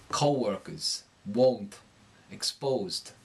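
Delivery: darkened O in "Co-workers, won't, exposed", New York accent; New York accent, darken just before the O in "won't". Shown as a demonstration. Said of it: "it's gonna darken before the O".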